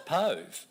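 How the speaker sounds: pove with a long O; rhymes with stove. Shown as a demonstration. Speaker offers teachers a third reading, pove rhyming with stove.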